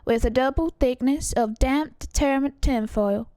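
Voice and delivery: put-on Southern-accented ad read; selling tidbits with measured, deliberate pauses. Pitching a remedy to listeners, ad read. Reads an ad in character.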